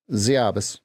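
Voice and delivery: Russian word with an Alaskan accent; Alaskan-accented Russian cuss word. Shown as a demonstration. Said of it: "That's the Alaskan accent".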